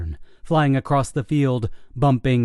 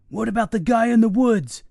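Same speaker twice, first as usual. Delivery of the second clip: yelling; 11 semitones higher than usual. Acted. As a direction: shout the question across the field. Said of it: "Greg yelled".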